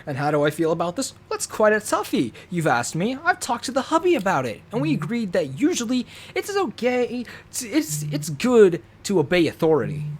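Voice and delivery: sugary, pious narrator, lightly done; lightly voiced devout mom reading aloud; prim church-mom voice. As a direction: read it like a smiling Sunday-school mom. Reads a mock-pious parent intro.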